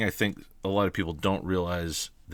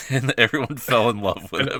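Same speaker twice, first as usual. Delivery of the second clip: laughing through the words, louder; 4 semitones higher, 6 dB louder than usual. Real, not acted. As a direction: say it while laughing. Laughing while telling.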